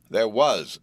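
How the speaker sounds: WAS leaned on, falling; significant. A narrator's reading. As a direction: weigh the word was. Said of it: "said Harold significantly".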